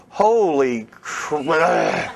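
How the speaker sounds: slow, drawn-out comic "holy crap"; mock dismay. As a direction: stretch it out in pretend dismay. Mock reversal right after the chant.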